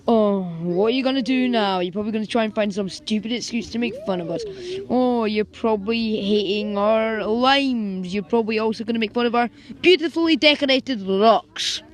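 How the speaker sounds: loud sarcastic teasing; sarcastic mock. Boy mocking the girls' insults, loud sarcasm. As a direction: sneer back at them.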